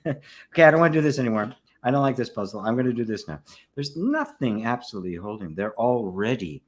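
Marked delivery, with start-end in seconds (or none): 0.1-3.4 put-on child moving on. Child dropping one activity for another.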